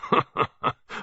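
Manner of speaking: low rumbling chuckle; old colonel's rumbling laugh; deep rumbling laugh. A narrator's reading. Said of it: "a deep, rumbling laugh".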